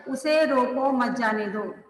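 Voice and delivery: "उसे रोको मत जाने दो" read straight through; no pause. Shown as a demonstration. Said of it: "किसी प्रकार का कोई भी चिन्ह यहाँ पर नहीं लगा".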